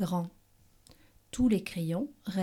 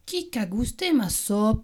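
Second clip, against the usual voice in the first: middle bear voice. Acted. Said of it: "s'écria Médiours".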